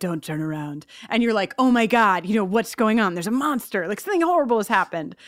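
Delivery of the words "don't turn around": put-on spooky voice, much lower and quieter. Retelling what Spike says when Xander comes down, in a spooky Spike voice. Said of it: "Spike in the spookiest voice is like".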